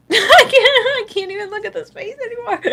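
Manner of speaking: very high, squealing through laughter; real hysterical giggling; helpless laughter. Real, not acted. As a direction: barely get the words out for laughing. Cannot stop laughing at the card.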